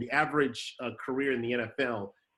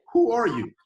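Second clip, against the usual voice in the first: a loud, higher, disbelieving "who are you"; incredulous mock shout; 10 semitones higher, 9 dB louder than usual. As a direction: bark it out like a dismissive gatekeeper. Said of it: "And it's like".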